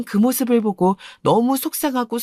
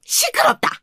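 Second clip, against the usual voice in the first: angry. Acted. Grandmother scolds the girl.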